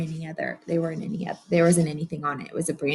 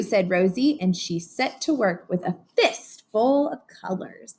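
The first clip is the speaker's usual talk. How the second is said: lively read-aloud storytelling; story narration; slower than usual. A narrator's reading. Teacher reading to her class, animated storybook narration. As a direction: read it like a picture book to a class.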